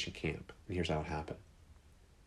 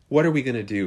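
louder, higher alarmed cry; sudden panic at the fleas; panicked; 5 semitones higher, 8 dB louder, faster than usual. Retold or imitated. Corey discovers the fleas and lice, panicked. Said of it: "Corey is freaking out".

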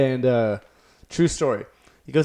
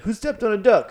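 booming tipsy uncle; 7 semitones higher than usual. Retold or imitated. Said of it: "his dad would come and be like".

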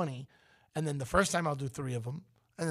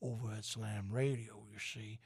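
southern twang; 4 semitones lower, 5 dB quieter than usual. Pretend. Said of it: "Have I worked well on the voice yet".

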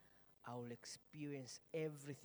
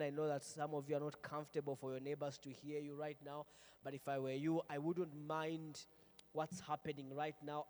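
loud urgent preaching; 3 semitones higher, 6 dB louder than usual. Real, not acted. Preacher urging congregation to pray.

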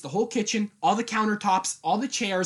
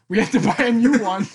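put-on girl on the bus; 3 semitones higher, 6 dB louder than usual. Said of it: "She's like".

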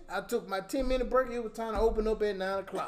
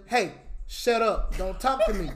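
slow, curt, clipped-off dismissal; abrupt brush-off. Retold or imitated. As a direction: cut her off abruptly, word by word.

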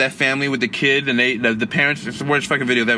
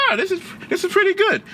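impressed. Retold or imitated. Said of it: "So I'm like".

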